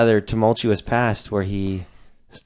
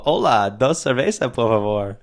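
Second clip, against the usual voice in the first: lightly mocked American tourist accent on Spanish, a touch raised; stereotypical American tourist Spanish; slower than usual. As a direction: order beers like a clueless American tourist, half in jest. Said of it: "I am that stereotypical Caucasian fucking asshole".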